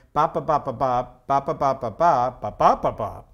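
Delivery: punchy nonsense syllables in joke rhythm; mimicked joke cadence; rapid-fire joke rhythm. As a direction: beat out a setup-punchline rhythm in ba's. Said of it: "I wasn't the guy who went".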